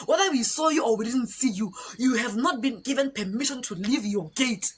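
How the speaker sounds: emphatic official telling-off; mock-stern reprimand; imitated soldier's reprimand. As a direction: scold like an officer quoting rules. Soldier reprimanding her, acted.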